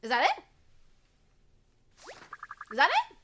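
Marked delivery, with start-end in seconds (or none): 2.7-3.2 with feeling. Shown as a demonstration. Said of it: "Once more, with feeling".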